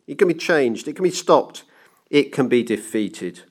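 ranting banker, rising through the argument; insistent banker. Acted. Banker shutting down the clockmaker's objection, insistent. Banker argues that time is beatable.

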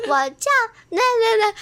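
put-on mumbling child. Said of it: "然后就很小声".

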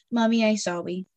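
a little kid's lisped apology, lightly mimicked; toddler saying sorry. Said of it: "she'll just come over and go".

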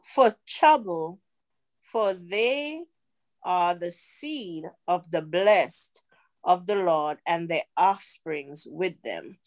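slow, measured Bible verse; scripture recitation. Retold or imitated. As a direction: recite the verse with deliberate, drawn-out words.

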